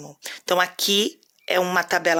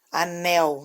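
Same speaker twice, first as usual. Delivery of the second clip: "anel" with the final syllable "nel" stressed; teacher sounding out the strong "nel" in "anel". Shown as a demonstration. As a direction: lean on the last syllable of "anel". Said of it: "o né aí é mais forte".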